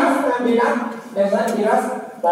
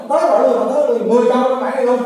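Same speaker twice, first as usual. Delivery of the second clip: urgent push; 4 semitones higher, 5 dB louder, faster than usual. Real, not acted. Urging students to memorize.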